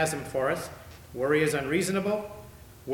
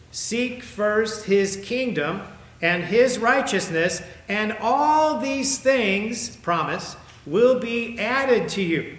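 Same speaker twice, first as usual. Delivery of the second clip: forceful preaching; 6 semitones higher, 6 dB louder, much slower than usual. Acted. Preaching scripture at full force.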